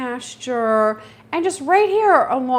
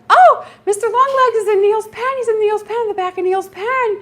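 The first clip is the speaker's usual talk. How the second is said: much higher and louder, thrilled; excited spotting; 12 semitones higher, 9 dB louder than usual. Retold or imitated. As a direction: point it out like a delighted birdwatcher. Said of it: "I'm like".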